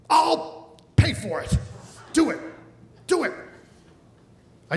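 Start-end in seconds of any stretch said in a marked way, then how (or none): 0.1-3.3 eager mother. Retold or imitated. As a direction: coax it like an excited mother. Mother eagerly offering to pay.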